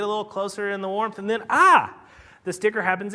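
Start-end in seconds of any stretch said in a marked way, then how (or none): 1.5-1.9 sudden loud "ah" of a poked porcupine; mock pained yelp. Porcupine snuggles up and gets poked, mock yelp. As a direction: yelp as if jabbed by a quill.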